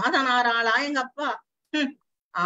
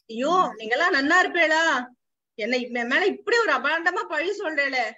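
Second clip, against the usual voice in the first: Mangalam wailing. Retold or imitated. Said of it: "மங்களம் கத்துறது".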